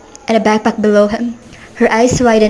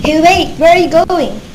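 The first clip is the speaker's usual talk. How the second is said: calling out; 6 semitones higher than usual. Acted. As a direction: stop him before he leaves. Calling after departing stranger.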